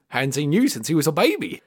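put-on British accent as a gruff-spoken book character; Hagrid impression. Podcaster quoting a Harry Potter giant, British dialect impression. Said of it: "Hagrid's lines are written in Robbie Coltrane".

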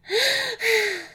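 high wheezing gasp for air; breathless gasp. Acted. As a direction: gasp like an asthmatic wolf out of breath. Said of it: "watched me wheezing".

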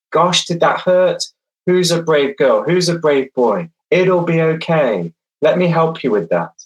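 gentle, kind comfort; soft and soothing. Shown as a demonstration. To a child who fell and is bleeding: soft soothing reassurance. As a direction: reassure the hurt child softly. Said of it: "your voice tone is soft and soothing".

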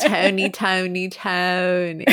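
playful attempt at a Philly accent. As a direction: repeat the name with exaggerated Philly vowels. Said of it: "Ben kinda has a little bit".

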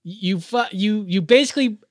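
heated rant. Real, not acted. Angry rant about coworker.

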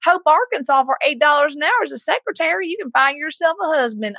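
lightly voiced worried mother; mom freaking out. Mom calls her daughter about a job, lightly voiced. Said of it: "my mom call me and freak out and go".

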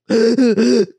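loud mock boo-hoo sobs; hammed-up crying noise. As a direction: imitate your own bawling in quick bursts.

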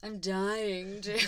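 slow, drawn-out cartoon ghost; slow cartoon-uncle delivery; hammed-up Casper uncle. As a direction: stretch it out like a hammy voiceover audition. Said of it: "play one of the uncles".

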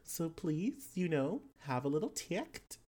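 put-on lilting Australian-accented character, rising ends; player's character, pleading. Character asking the party, politely pleading.

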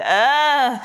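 high, drawn-out mock groan; overwhelmed groan. Reader faced with a dizzying book, mock overwhelmed groan. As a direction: groan as if lost in a big book. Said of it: "it can be rather dizzying".

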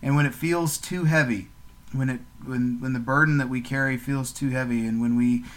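steady, earnest prayer voice; gentle podcast prayer to God; closing prayer. Real, not acted. Prayer continues.

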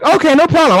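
high eager okay; lightly voiced overly helpful guy; mock friendly guard. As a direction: chirp it like a fake helper. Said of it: "And he's like".

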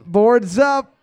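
brisk command to the players; calling out. Real, not acted. Host calls out to players.

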